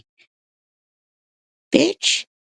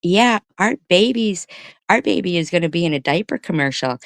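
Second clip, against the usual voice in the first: higher, slowed-then-rushed smug mom voice; a hint of a boasting mother; proud mother; 6 semitones higher than usual. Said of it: "And she is".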